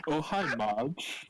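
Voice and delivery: put-on drawn-out, accented movie-line parody; slow mock greeting; Tommy Wiseau. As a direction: slowly imitate an oddly accented actor. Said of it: "if he looks like Tommy Wiseau".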